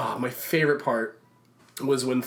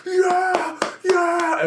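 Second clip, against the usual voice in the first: much higher, louder whoop; imitated crowd cheer; 5 dB louder than usual. The standing audience cheering Thor, mock whoop. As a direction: cheer like at Thor's entrance. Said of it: "yelled again".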